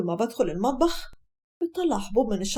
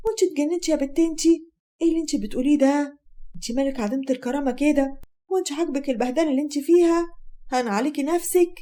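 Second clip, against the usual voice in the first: higher-pitched, outraged mother; indignant scolding; 4 semitones higher than usual. Acted. Mother berating her daughter for refusing to leave, indignant.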